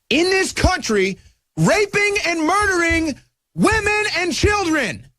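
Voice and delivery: high, slow, outraged emphasis on every word; fired up. Real, not acted. Host to his audience, outraged and fired up. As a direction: let the outrage climb, each word hammered slowly. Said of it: "I'm sorry that I get so fired up about this".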